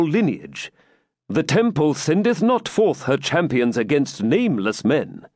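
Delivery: stern Templar elder. Acted. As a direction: lay down the rule coldly. Malvoisin speaks to the knight.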